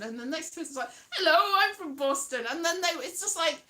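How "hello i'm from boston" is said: higher, laughing imitation of a perky contestant; mock contestant. Next Boston contestant introducing herself, mock perky. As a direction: chirp the introduction, lightly mocking.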